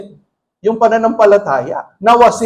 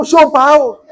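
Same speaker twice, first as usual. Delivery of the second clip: laughing; 4 semitones higher, 3 dB louder than usual. Real, not acted. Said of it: "Sabihin mo sa katabi mo".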